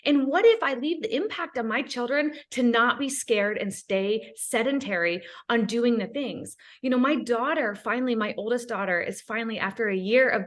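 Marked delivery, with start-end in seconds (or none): 0.1-6.6 hopeful what ifs, full of possibility; excited what ifs. Retold or imitated. Mom dreaming aloud to her kids, excited. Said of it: "I changed that tone to".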